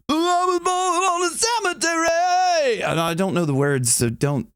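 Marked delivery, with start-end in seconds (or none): 0.1-2.8 sung way up in head voice; high head voice demo. Shown as a demonstration. Vocal coach demoing the singer's high head voice. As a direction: flip high into a piercing head voice. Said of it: "he's down in this kind of".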